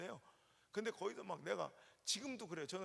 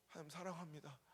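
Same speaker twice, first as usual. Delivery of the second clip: softly repeated prayer; 6 dB quieter than usual. Retold or imitated. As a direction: say it again, hushed and humble. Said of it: "펑펑 울면서".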